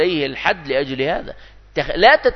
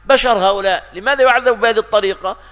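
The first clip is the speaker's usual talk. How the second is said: mock pity; 5 semitones higher than usual. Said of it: "قل".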